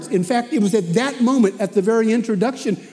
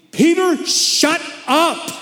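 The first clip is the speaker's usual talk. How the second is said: blunt rebuke; 9 semitones higher, slower than usual. Retold or imitated. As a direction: bark his name, then cut him off. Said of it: "Which is Bible talk, meaning".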